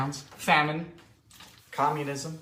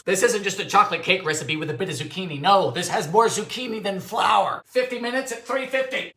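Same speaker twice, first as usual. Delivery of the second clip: normal talking voice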